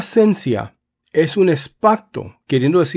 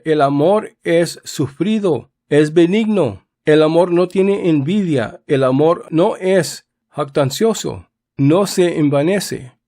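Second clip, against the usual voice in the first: slow, deliberate reading of the verse; measured pulpit recitation; scripture reading; slower than usual. Acted. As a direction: lay each phrase down slowly, like holy text. Reading scripture slowly aloud.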